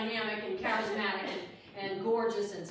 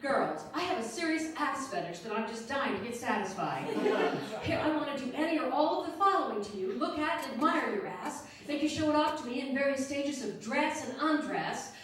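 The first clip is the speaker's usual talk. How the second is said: reciting an ad; 4 semitones higher, 3 dB louder than usual. Retold or imitated. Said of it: "I'm gonna recite for you".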